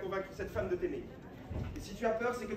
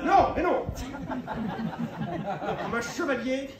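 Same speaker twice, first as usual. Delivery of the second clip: laughing protest; 2 semitones higher, 4 dB louder, much slower than usual. Real, not acted. Laughing denial.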